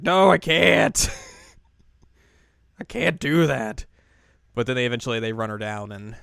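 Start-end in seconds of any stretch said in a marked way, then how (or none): 0.0-3.9 panicked refusal. Retold or imitated. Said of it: "He's like".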